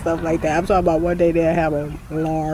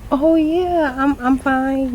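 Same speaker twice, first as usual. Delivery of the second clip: flustered reassurance; 9 semitones higher, 3 dB louder, slower than usual. Retold or imitated. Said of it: "I'm like".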